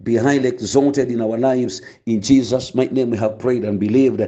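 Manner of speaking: measured, reverent prayer voice. Acted. Pastor praying over his listeners, reverent and steady. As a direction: pray it steadily before the congregation.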